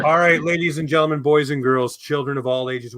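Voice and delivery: booming showman welcome; ringmaster. Pretend. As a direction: announce it like a circus ringmaster. Opening the show like a circus.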